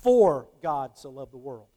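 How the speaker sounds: For God so loved the world, For hit first; varied inflection. Shown as a demonstration. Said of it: "I put a different inflection on the words".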